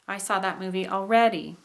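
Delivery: rise-fall landing on "already"; high tone on ALREADY. Shown as a demonstration. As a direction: punch the "rea" in "already", then fall. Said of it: "re and ready".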